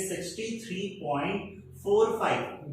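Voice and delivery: "पॉइंट" then "फ़ोर फ़ाइव", digit by digit; number read-out demo. Shown as a demonstration. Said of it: "अगर हम इसे pronounce करेंगे".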